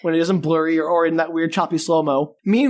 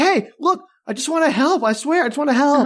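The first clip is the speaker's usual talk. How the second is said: higher, eager pleading voice; Mudlap pleading; 6 semitones higher than usual. Retold or imitated. Mudlap begging Ryan, higher pleading. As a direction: beg to be allowed to help. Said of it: "Mudlap's like".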